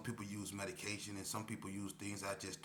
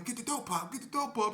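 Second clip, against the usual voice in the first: high, louder repeated order; stalling for time; urgent demand; 6 dB louder than usual. Retold or imitated. To K P in the hallway, urgent high demand.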